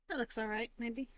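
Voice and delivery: words around a mouthful of food; chewing while talking. Real, not acted. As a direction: talk while chewing a snack. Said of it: "I'm munching on my jalapeno poppers".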